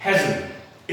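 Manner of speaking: "hasn't" ending on n, t dropped; contracted hasn't. Shown as a demonstration. Teacher showing learners the right form, reduced hasn't. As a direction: let "hasn't" fade out on the n. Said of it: "इसे हम बोलते हैं".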